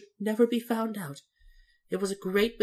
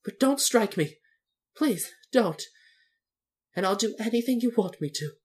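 high-pitched, halting little man's plea; timid begging; frightened pleading; 11 semitones higher than usual. Acted. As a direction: beg not to be hit, pitched high. Frightened little man begs for mercy.

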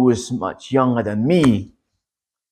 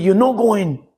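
stern refusal; 8 semitones higher than usual. Retold or imitated. Man refusing him again.

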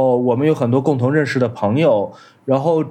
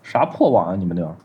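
choppy broken-up audio; radio breaking up; 7 semitones lower than usual. Real, not acted. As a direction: voice cutting in and out. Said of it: "你的声音断断续续的".

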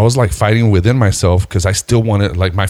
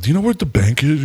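casual, higher-pitched question; acting nonchalant; 7 semitones higher than usual. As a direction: toss the question off as if oblivious. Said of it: "just trying to act nonchalant".

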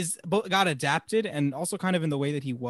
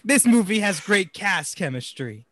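mock stiff praise; 4 semitones higher, slower than usual. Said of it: "Angrily say".

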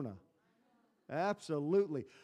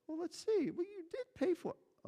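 a lightly voiced, much higher warden; parking warden; 14 semitones higher than usual. Warden telling the driver he did pay, lightly voiced. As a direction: play the warden, mildly voiced. Warden answering the ticket complaint.

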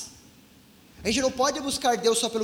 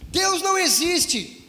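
imitated tearful plea, higher and slow; retold crying, pleading; 6 semitones higher, slower than usual. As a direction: draw it out like a mild mock sob. (choro imitado, agudo e lento)

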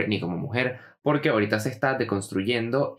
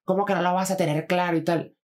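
high-pitched incredulous retort; mock indignation; 6 semitones higher than usual. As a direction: imitate an offended comeback, pitched up. Acted indignant reply in quarrel.

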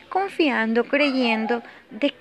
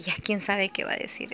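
hushed, unvoiced worry; fearful whisper; 5 dB quieter than usual. Woman recalling fear of husband, whispering. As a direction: whisper it as if afraid he hears. Fearful inner thoughts about him.

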